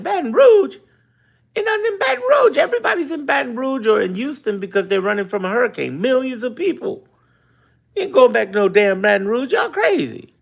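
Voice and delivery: high, disbelieving outburst; incredulous rant. Retold or imitated. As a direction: scoff at the idea of going back. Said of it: "I'm like".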